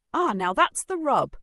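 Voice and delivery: put-on high, loud, thoughtful old man; musing old grandpa. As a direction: muse it like a sly old grandfather. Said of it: "Michael mused".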